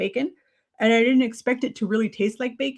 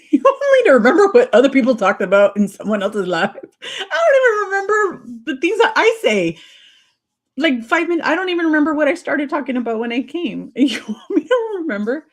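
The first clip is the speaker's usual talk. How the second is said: laughing; 5 semitones higher, 6 dB louder than usual. Real, not acted. Laughing at a viewer's request.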